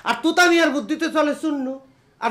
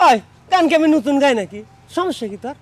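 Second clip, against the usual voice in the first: put-on belligerent drunk; 4 dB louder than usual. Father scolds over singing.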